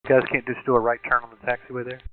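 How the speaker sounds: tinny cockpit radio call; air traffic control radio. Real, not acted. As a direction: pilot talking over the radio. Recorded pilot radio call.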